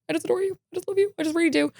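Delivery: high, swooning fangirl declaration; adoring gush. Retold or imitated. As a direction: pour out adoration, starry-eyed. Gushing love to leaving idol.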